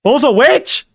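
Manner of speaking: high, loud witchy shriek; a loud, high witch cry. Pretend. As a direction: cackle it out like a storybook witch. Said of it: "I swear Boo Boo want to do that voice that bad".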